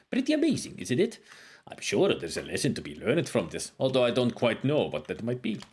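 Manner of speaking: a hint of a wise old wizard reading his lines; scholarly sage, lightly put on; lightly voiced game sage. Voices game character dialogue.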